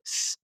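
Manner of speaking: short, soft hissed S; snake hiss. Retold or imitated. Describing the voice in the vision, a brief snake hiss. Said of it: "he stretched out the S's".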